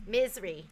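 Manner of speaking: low MIZ-ree for "Misery"; trying out misery. Shown as a demonstration. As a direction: say "Misery" stressed up front. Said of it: "That sounds good".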